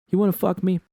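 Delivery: loud and high, brazen; a bold shouted proposition. A narrator's reading. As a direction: yell it out bold across the room. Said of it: "Roxanne shouted".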